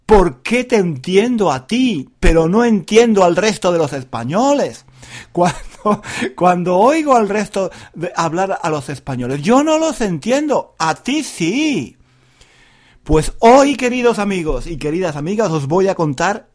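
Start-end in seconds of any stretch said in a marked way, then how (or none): 0.1-12.0 imitating a puzzled listener. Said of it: "y me preguntan".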